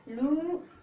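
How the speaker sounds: high "लूब", long oo, separate b; sounded out. Shown as a demonstration. Teacher answers own drill question, sounded out "लूब". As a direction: hold "लू" up high, then add b. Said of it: "क्या बोलोगे".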